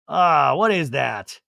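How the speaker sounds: mock outrage at a bad smell; disgusted shout. Jackson disgusted by oyster smell.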